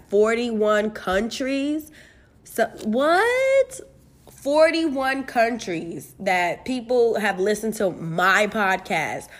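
stunned by her own stats; amazed disbelief. Real, not acted. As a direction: stretch it out in disbelief.

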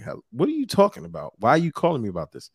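high, quick baffled protest; confused protest. Retold or imitated. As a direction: sound caught off guard. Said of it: "I'm like".

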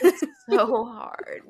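high, slow, laughing through the words. Real, not acted. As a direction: crack up while saying it. Repeats line, cracking up.

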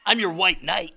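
imitating a movie character. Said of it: "Who did he get to do it?".

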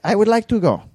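high, lightly voiced old dad; a hint of a frail old father asking; mock old man request; imitating dad. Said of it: "And my dad's like".

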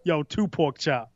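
slow, heavy demand; slow Suge voice. Pretend. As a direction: drawl the order like a tired boss. Repeating Suge's demand.

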